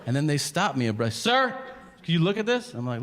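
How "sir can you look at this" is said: high, eager canvasser pleading; squeaky charity-clipboard voice; mock petitioner voice. Imitating the petitioner who stops him, high and pleading.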